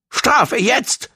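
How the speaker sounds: high, strained demand; gasping. A narrator's reading. Gong insists on punishment now, gasping. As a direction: push it out high and urgent. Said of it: "keuchte er".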